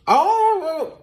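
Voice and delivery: sharp high exclamation; surprised high oh. Real, not acted. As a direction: gasp out a startled oh. Sticky sugar mishap.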